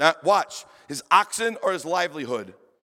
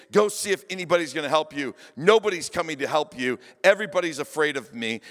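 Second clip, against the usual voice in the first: lower, fast and smug, lightly voiced conqueror; arrogant enemy; 3 semitones lower, faster than usual. Enemy taunting the besieged townspeople, fast and smug. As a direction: rattle off the threats like a gloating bully. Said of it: "the enemy is so arrogant that he goes".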